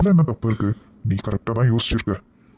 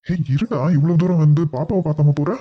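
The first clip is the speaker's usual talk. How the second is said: higher-pitched, calling him back; protesting; 4 semitones higher than usual. Acted. Man to his departing visitor, protesting. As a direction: stop him with a raised, protesting voice. Stops a man who is leaving.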